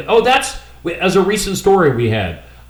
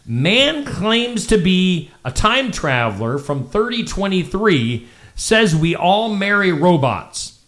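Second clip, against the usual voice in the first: headline read; 2 semitones higher, slower than usual. Shown as a demonstration. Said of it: "I would say something like".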